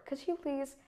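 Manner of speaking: high "Could you" coming down on "please"; short demonstrated request with a downward end on "please"; falling intonation. Shown as a demonstration. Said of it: "my voice tone decreases towards the end".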